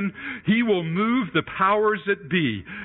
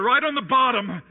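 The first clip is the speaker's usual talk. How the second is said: usual speaking voice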